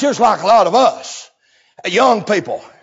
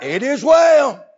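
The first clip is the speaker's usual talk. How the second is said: shouted reply; 6 semitones higher, slower than usual. Retold or imitated. Mother answering the prophet, shouted. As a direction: proclaim it firmly. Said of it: "when the man of God said".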